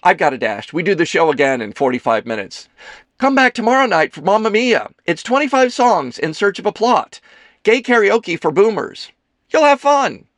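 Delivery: high, loud, showy patter; theatrical actress character, breezy. Acted. Kelsey inviting the men to her show, loud and breezy. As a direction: sell the show like a stage diva.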